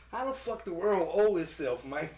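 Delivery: country alien dude. Retold or imitated. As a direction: stretch it out like a confused space hick. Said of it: "a little country ass, uh, alien dude".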